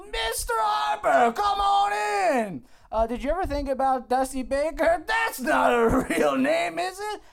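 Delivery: high, drawn-out hearty bellow; booming boss. Acted. Boss calling Mister Harper in, bellowing. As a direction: holler like a clueless big boss. Boss greeting the star player.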